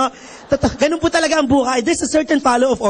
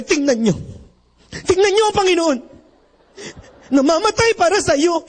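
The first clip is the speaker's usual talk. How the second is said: lightly voiced stirring announcer, a bit higher; dramatic announcer; 4 semitones higher than usual. Priest imitating the Batangas announcer moving the crowd. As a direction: rouse the crowd like a passion play announcer. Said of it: "sabi nung announcer".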